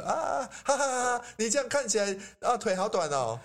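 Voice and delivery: mocking teaser. Teacher plays the teaser mocking short legs, high and jeering. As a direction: laugh at them and sneer. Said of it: "我现在假装我是对方".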